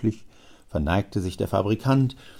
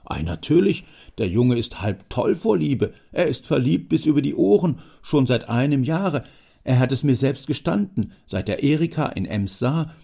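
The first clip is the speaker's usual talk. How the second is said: a higher, eager, gushing father; proud father rattling on, much higher; excited father; 6 semitones higher, 4 dB louder than usual. Acted. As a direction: gush about the lovesick son. Father gushes about son.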